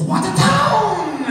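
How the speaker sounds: high, slow yelled mock accent; mock Asian accent shout. GPS voice announcing the destination. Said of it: "It goes".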